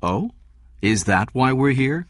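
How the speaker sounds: lightly amused question; smiling. A narrator's reading. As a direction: ask it through a smile.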